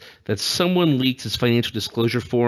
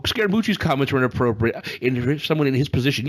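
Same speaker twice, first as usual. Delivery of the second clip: mocking repeat; 2 semitones higher than usual. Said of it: "which makes me laugh".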